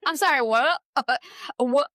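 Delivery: laughing disbelief; stunned disbelief. Retold or imitated. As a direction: caught off guard by the ghost news. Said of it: "I'm, like, sitting".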